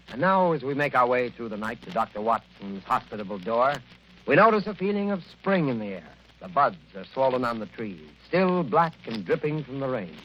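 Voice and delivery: hushed, atmospheric storytelling voice; scene narration. Acted. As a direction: paint the spring night for listeners, gently. Announcer sets the scene.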